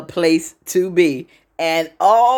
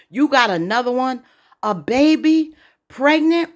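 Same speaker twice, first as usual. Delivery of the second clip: disbelief climbing higher with each question; mock incredulity; 7 semitones higher than usual. Confronting Gary over a pregnant girlfriend, mock incredulous.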